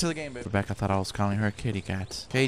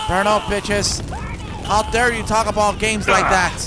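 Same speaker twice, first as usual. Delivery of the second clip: raised, louder scolding at the protesters; indignant outburst; 8 semitones higher, 5 dB louder than usual. Real, not acted. Gamer scolding the anti-game protesters, indignant and louder. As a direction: tell them off, offended on games' behalf.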